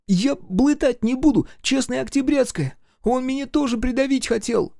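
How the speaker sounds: высокий детский голос, картавит, медленно; мальчик клянётся, что не соврёт; младший брат. A narrator's reading. Brother keeps pleading. (высокий детский голос, чуть медленно)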